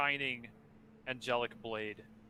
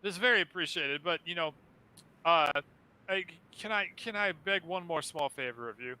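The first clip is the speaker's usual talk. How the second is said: high, grand, theatrical ghostly host; flaming skull voice; 6 semitones higher, 5 dB louder than usual. Acted. Skull asks a favor.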